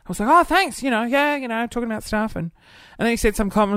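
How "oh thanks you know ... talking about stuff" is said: tag-along thanks. Retold or imitated. Voicing own reply to the boss.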